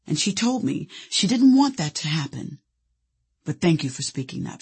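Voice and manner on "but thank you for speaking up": calm soothing voice. Retold or imitated. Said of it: "calm, soothing voice".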